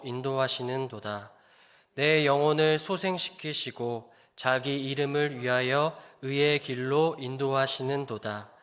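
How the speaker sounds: slow, measured reading of a psalm; solemn scripture reading. Acted. Pastor reading Psalm 23 to the congregation, slow and solemn. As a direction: read it as holy words, unhurried.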